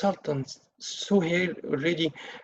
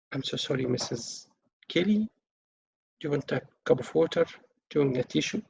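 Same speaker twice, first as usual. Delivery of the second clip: empathetic doctor; faster than usual. Shown as a demonstration. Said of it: "Keep showing empathy and sympathy".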